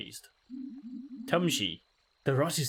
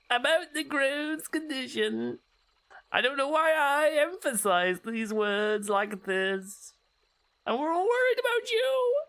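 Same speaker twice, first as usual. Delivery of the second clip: Dalek-like voice; 10 semitones higher than usual. Acted. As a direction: drone it like a robotic Dalek. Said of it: "sound like a Dalek".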